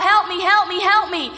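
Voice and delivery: Bartimaeus calling out for help; crying out. Acted. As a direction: cry out loudly for help. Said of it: "is, is crying out".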